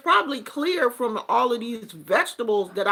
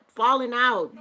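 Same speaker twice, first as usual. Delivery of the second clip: ordinary talk, nothing marked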